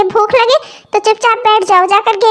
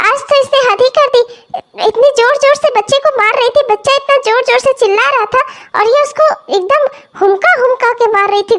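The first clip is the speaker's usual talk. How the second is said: put-on 1 complaining old mother. Grandmother voice complaining to son.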